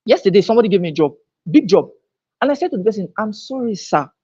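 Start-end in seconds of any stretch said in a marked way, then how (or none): 3.2-4.1 soft, polite apology; quiet, kindly refusal. Retold or imitated. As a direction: apologise gently and respectfully. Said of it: "With kindness".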